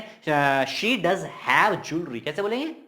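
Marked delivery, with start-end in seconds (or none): 0.6-2.2 very slow "She does have jewelry"; emphatic stress. Shown as a demonstration. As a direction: draw out "does have" with weight. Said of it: "तो कैसे बोलें".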